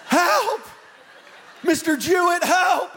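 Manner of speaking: high, loud cries of help; screaming for help. Retold or imitated. Lost boys shouting for the camp leader, loud high cries. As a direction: yell for help across the woods. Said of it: "We just start screaming".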